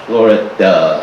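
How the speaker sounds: "Florida" dropped low. Shown as a demonstration. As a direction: let "Florida" sink deep.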